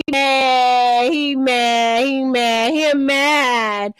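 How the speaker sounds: very slow, drawn-out mock baby talk. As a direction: taunt him like talking to a toddler. Mocking the caller as childish.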